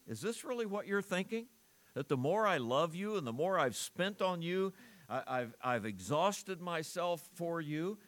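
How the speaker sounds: voicing Paul's hurt appeal, rising to a pleading question. Paul pleading with the church in a hurt, rising voice. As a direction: ask it as a wounded apostle. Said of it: "He would be saying".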